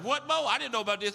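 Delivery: high, loud What, Mo; surprised audience. Retold or imitated. Audience member shocked by the story, loud and surprised. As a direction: gasp it out in shock. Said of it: "I know you was like".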